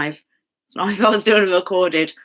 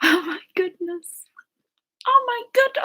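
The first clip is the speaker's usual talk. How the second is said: put-on very high little-kid voice; 13 semitones higher than usual. Mid-monologue, the speaker exclaims aloud, sounding like Annie. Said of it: "I sound like Annie now, that little kid off Annie".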